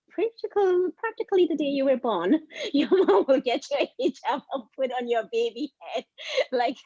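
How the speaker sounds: high-pitched, laughing through the words; amused laughing. Real, not acted. Panelist joking to the room about babies in hijab, laughing. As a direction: tell it while breaking into laughter.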